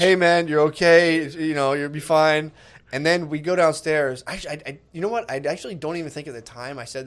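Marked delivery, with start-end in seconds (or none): 0.0-2.5 slow, soothing reassurance; calm the friend down slowly; slow gentle you'll be fine; reassuring. Retold or imitated.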